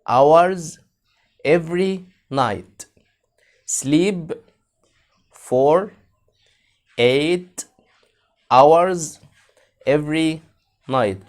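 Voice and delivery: every night drawn out slow; slow model. Shown as a demonstration. Teacher reading a sentence aloud slowly. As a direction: say it slowly so kids can follow. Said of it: "slow model".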